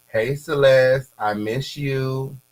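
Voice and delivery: slow, drawn-out reading of a flirty text; reading a message aloud. Retold or imitated. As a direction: stretch out each word like a lovesick note. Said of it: "Here go the messages".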